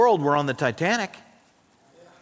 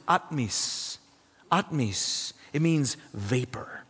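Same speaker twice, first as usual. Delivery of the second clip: whispered aside; 4 semitones lower, 6 dB quieter, slower than usual. Real, not acted. Pastor to congregation, whispering the meaning. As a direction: whisper "It means vapor." slowly, barely voiced. Pastor explains Greek word softly.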